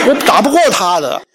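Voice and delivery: chuckling through the line; amused admission, laughing. Real, not acted. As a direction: laugh at the idea of fighting dad. Joking about father's kung fu.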